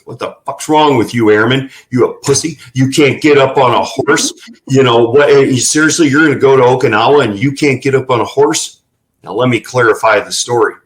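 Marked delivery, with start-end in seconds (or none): 0.0-8.8 imitated Marine dressing-down; Marine chewing out. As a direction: tear into the airman like a tough Marine. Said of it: "I gotta say it like a Marine would say it".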